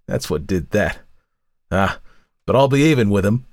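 put-on scarred old woman nursing revenge; bitter old crone. A narrator's reading. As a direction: spit out old grievances. Crone character voice.

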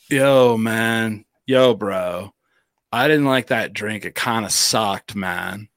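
slow, lightly mimicked California bro; a hint of laid-back California drawl; California bro accent. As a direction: stretch it out like a California dude. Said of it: "that California".

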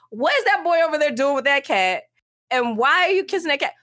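put-on high, prying little girl voice; nosy little girl. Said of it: "she's just like".

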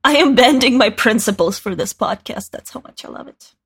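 talking with candy in mouth; words around a hard candy; sucking a hard candy. Real, not acted. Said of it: "it's 'cause I have candy in my mouth".

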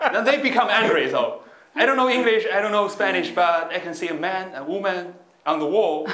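high, giggling through the punchline; can barely get it out for laughing. Real, not acted. Telling friends the airport toilet story, laughing.

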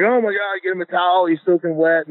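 high, mock-alarmed outburst; shocked disgust. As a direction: imitate the QB recoiling. Quarterback reacting to soaked center.

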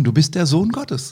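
milde angedeuteter Schrei, höhere Stimme; vorgelesener Ausruf. A narrator's reading. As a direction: den Ruf der Geister beim Vorlesen leicht anheben. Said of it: "schrien und sprachen". (leicht angedeutetes Rufen beim Vorlesen)

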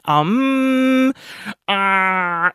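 mock stalling on long, held filler sounds; drawn-out hesitation. Podcaster mocking their own half sentences, drawn-out hesitation. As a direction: imitate yourself stuck mid-sentence, stretching each filler. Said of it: "doing half sentences and then saying".

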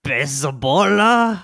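put-on slow, tentative French accent. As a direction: attempt a French accent, drawn out. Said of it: "with a French accent".

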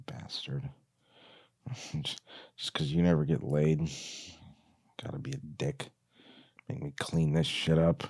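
soft muttered grumbling; quiet bitter muttering to himself. Acted. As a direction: grumble it under your breath. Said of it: "muttering to himself".

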